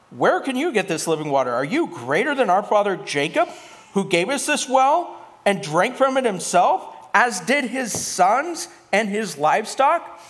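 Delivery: sarcastic challenge, stretched at the end. Acted. Samaritan woman asks Jesus if he outranks Jacob, sarcastic. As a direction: question his standing with mock wonder. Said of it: "I might be sarcastic".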